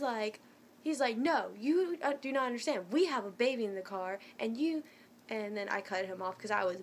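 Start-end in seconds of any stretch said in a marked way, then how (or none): 1.2-4.8 mildly heated, emphatic objection; retold firm protest. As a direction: imitate an insistent husband arguing. Retold quarrel, husband answering back.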